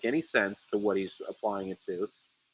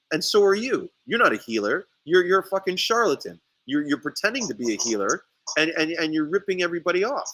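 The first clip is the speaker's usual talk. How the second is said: retold accusation; 5 semitones higher, faster than usual. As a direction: throw the charge back at the rival. Retold accusation thrown at the rival.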